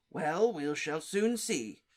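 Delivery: put-on Diggory dismissing the children; growled. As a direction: growl it, unconvinced. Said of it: "growled Mister Diggory".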